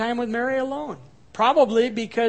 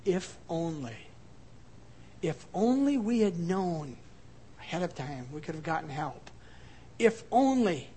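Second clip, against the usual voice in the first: grieving lament; 3 semitones lower, 6 dB quieter than usual. Acted. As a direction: sigh it out with longing. Voicing grief's common feeling.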